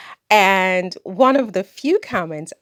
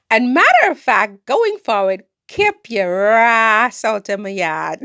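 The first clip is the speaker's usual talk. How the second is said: a sassy Caribbean patois put-down; 3 semitones higher, 4 dB louder than usual. Retold or imitated. Her patois reply ordering the commenter off, in Caribbean patois. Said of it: "give him the patois".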